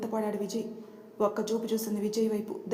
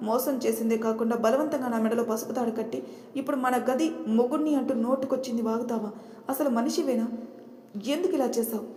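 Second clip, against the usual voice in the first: angry accusation. Acted. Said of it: "Shivani కోపంగా".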